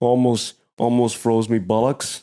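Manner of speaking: mock British accent; British slang. Comic riff on a freezing morning, British accent. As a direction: play a Brit moaning about the cold. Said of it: "as the Brits say".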